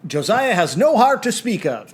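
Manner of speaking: formal news anchor read; newscaster voice. Retold or imitated. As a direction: announce it like the evening news. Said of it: "you said it like a newscaster".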